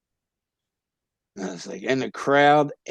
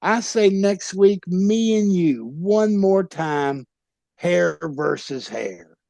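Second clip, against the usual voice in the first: higher, slow challenge to a rival; wrestling promo callout; 4 semitones higher, slower than usual. Retold or imitated. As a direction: call him out like a wrestler on the mic. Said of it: "start cutting a promo".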